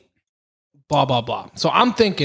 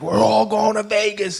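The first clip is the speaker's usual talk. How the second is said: higher, excited announcement; excited yell; 6 semitones higher than usual. Retold or imitated. Telling friends about the lottery win, excited. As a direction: shout the good news to the room. Retold shout after winning ticket.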